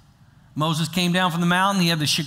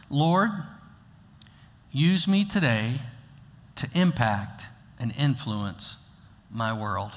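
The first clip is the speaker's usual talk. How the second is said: prayer voice; 5 semitones lower, 3 dB quieter, slower than usual. Shown as a demonstration. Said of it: "Pray this prayer".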